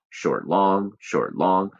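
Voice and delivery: "short, long" in a steady beat, leaning on "long"; iambic rhythm demo. Shown as a demonstration. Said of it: "And then the next line".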